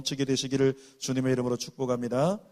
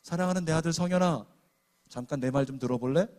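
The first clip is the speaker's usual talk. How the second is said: tender voice of God. Shown as a demonstration. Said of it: "하나님이 우리를 부르신다면 이렇게 부르실 겁니다".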